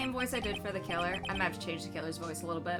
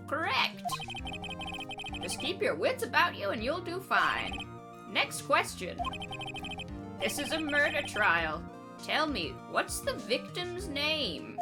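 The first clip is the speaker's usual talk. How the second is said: put-on grumpy old man; 4 semitones higher than usual. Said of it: "old man voice".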